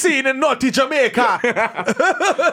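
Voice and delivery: drawn out very slowly through laughter; slow laughing mock announcement. Laughing mock scandal line.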